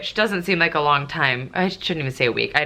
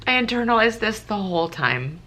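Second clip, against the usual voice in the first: a touch of real tears, higher; gently tearful, pulling herself together; still teary; 5 semitones higher than usual. Real, not acted. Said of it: "which is probably why I'm crying".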